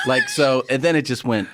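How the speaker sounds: normal talking voice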